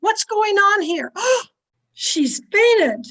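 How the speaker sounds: alarmed. Acted. Commotion after a scream.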